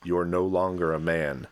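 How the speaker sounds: deliberate, emphatic recital of lyrics; dramatic lyric reading. Acted. Reading crude lyrics on request, emphatic recital. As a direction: declaim each line like a poem.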